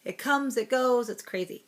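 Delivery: hoarse from a cold; raspy, sick voice. Real, not acted. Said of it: "please excuse my raspy voice".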